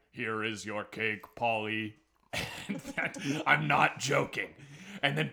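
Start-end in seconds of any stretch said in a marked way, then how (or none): 0.1-1.9 slow, lower polite butler robot; lightly voiced robot servant. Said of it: "and goes like".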